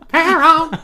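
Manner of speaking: high loud soprano "Peron." while laughing; soprano through laughter. Pretend. Cohost sings Evita again, laughing, high soprano. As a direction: belt "Peron." high, cracking up. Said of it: "your soprano sounds like Charlotte Rae".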